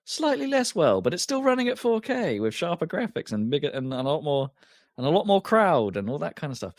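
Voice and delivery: mock over-the-top enthusiastic praise; gushing. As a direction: gush like an overexcited reviewer. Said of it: "I was like".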